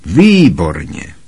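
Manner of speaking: gleeful. A narrator's reading. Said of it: "zaradovala se teta March".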